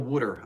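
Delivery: "Wooder" for water, with "oo" as in wood; Philly-style "Wooder"; Delaware Valley pronunciation. Shown as a demonstration. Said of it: "I can't get rid of Wooder".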